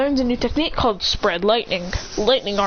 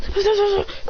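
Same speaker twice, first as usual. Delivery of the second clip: electric shock noise; 9 semitones higher than usual. Acted. Character gets shocked by lightning.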